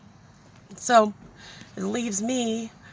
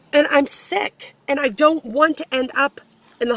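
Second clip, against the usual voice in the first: pissed off; 6 semitones higher, 4 dB louder than usual. Real, not acted. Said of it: "I'm fucking pissed off".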